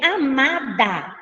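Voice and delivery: "amada" slowly split as a, ma, da; syllable by syllable. Shown as a demonstration. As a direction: sound out each syllable of "amada" softly and slowly. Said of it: "Qual é a sílaba tônica?".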